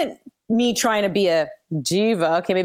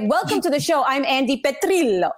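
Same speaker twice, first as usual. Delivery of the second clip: bright TV host intro, pitched up; mock on-air intro; 5 semitones higher than usual. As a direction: announce it like a sports anchor. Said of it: "be like".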